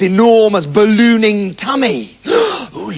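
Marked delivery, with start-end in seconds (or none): 2.3-2.9 high startled "Oh"; hammed-up gasp of surprise; mock alarm. Mother spots moving tummy.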